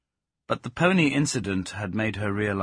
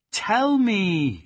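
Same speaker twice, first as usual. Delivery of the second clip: much higher, louder pleading Tell; desperate imploring cry; 12 semitones higher, 7 dB louder than usual. Acted. Plaxi crying out for the silent dog to speak. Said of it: "she implored".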